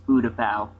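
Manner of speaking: Utapau said "OO-tuh-pow"; pronunciation of Utapau. Shown as a demonstration. Host corrects co-host, Utapau as "OO-tuh-pow". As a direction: start Utapau with a plain "oo", no y. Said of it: "the announcer says Utapau".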